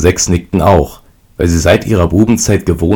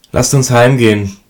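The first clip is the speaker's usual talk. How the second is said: pleading; 6 semitones higher than usual. A narrator's reading. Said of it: "bat der Jüngste".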